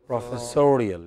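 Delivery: "Professorial" with the weight on "SO"; teacher models "Professorial", stressing "so"; stress shifted to fourth syllable. Shown as a demonstration. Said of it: "it changes stress".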